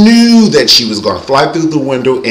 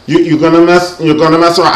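put-on New York accent, raised pitch; Evelyn; 4 semitones higher, faster than usual. Imitating Evelyn's threat, mock New York accent. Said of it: "like, this New York accent".

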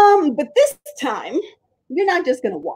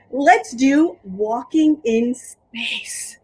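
slow; much slower than usual. Shown as a demonstration. Kids' movement game, slow space walk.

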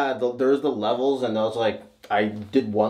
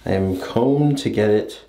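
bathroom echo. Real, not acted. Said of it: "as you can hear the echo right now".

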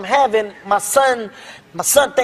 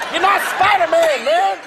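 high shouted scolding, punching NOT; dad yelling at his son; angry yell; 6 semitones higher than usual. Retold or imitated. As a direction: shout it at the kid on the floor. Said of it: "I yelled, I got so mad".

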